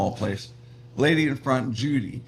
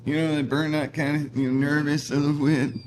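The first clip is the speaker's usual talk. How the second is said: higher-pitched, nervous burnout voice; Ralph the Cat; 4 semitones higher than usual. Acted. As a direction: play a slightly jittery stoner, pitched up. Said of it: "he had his voice".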